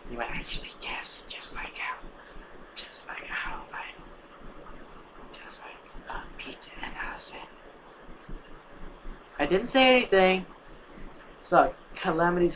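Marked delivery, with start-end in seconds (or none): 0.1-7.4 whisper. Real, not acted. Whispered aside about pairing.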